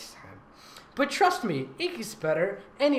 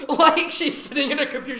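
mocking; 9 semitones higher, 6 dB louder than usual. Mocking the narrator's phrasing.

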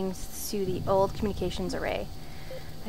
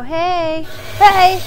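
startled shout; 8 semitones higher, 11 dB louder than usual. Real, not acted. Monster jumps out.

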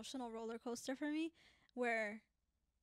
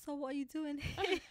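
higher-pitched, shaky attempt at British; British accent; 4 semitones higher than usual. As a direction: imitate a British official, not very well. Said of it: "Let me channel the trauma".

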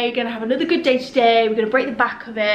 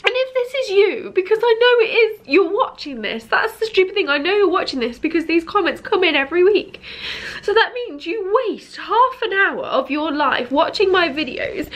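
tearful; 6 semitones higher than usual. Real, not acted. Addresses trolls after crying.

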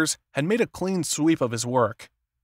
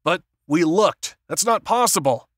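disbelieving; 5 semitones higher, 4 dB louder than usual. A narrator's reading. Warren refuses to believe the news.

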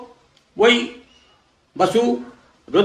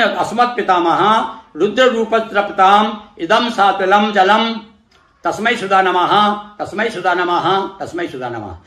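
slow ritual chant for the listener to repeat; mantra recitation. Shown as a demonstration. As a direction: intone it like a priest leading the offering. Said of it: "इसी तरह बोलना है".

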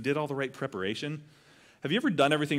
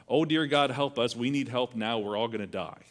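mock panic. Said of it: "That's kinda how I would go".

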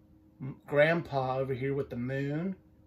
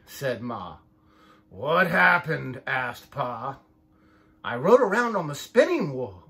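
lively picture-book read-aloud, voices for each sheep; reading to children; 4 dB louder than usual. A narrator's reading. Parent reading a sheep story to the child, lively storytime voice. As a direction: read it like storytime for little ones.

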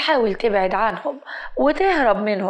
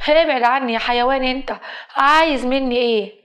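acted indignant girl warning off a harasser; mildly heated, frightened-girl protest; angry rebuff; 2 semitones higher, 3 dB louder than usual.

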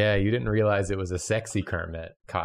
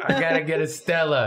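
put-on Brooklyn accent; 5 semitones higher than usual. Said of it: "slight Brooklyn twist".

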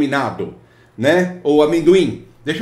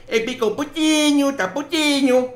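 mock sulky client; 9 semitones higher than usual. Mocking the sulking client.

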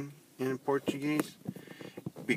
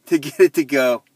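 laughing frustration; 4 semitones higher, 13 dB louder than usual. Real, not acted. Frustrated with speech recognition.

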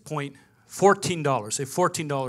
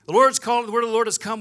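higher, louder proclamation; excited announcement; 6 semitones higher, 9 dB louder, faster than usual. Retold or imitated. Pastor phoning Shirley about the move, loud and high. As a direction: announce it like big news.

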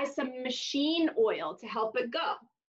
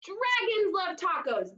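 right answer; 6 semitones higher than usual. Shown as a demonstration. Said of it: "that's it".

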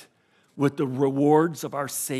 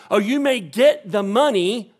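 ordinary talk

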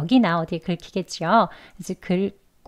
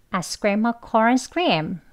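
quicker run through the sentence; a bit faster; much slower than usual. Shown as a demonstration. Teacher repeats the sentence a bit faster for the students. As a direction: speed up the same line a little. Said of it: "조금 빨리 해볼까요".

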